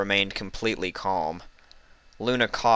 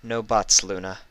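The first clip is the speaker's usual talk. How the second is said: severe. Acted. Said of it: "staring at her very severely".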